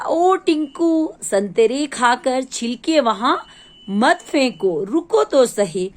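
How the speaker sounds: slow drawn-out call to Tinku; dustbin shouting. Acted. Dustbin calling after Tinku not to drop peels, drawn-out call. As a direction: call after the boy, stretching his name. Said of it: "कूड़ेदान फिर चिल्लाया".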